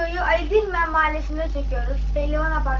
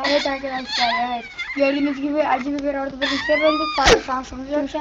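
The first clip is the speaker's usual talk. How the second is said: talking through a burning mouth; gasping from the hot pepper; 4 semitones lower, 3 dB quieter than usual. Real, not acted. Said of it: "arkadaşımızın ağzı yandı".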